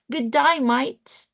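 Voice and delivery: imitated Australian greeting, rising at the end; Australian accent. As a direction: exaggerate the Australian "die, mite" vowels. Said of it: "Australians are far more difficult".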